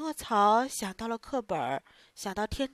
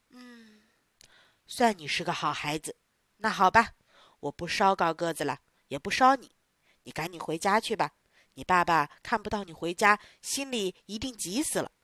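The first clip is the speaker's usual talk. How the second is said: softened boss; 4 semitones lower than usual. Acted. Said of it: "心彻底软了下来".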